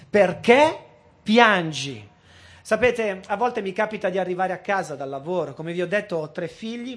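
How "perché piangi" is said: PERCHÉ rises, piangi drops, said louder; urgent repeated plea; pressing louder question. Acted.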